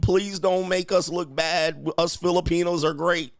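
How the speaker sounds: hammed-up begging; mock pleading. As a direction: plead on her behalf, drawn out and high. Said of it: "she was trying to beg and plead".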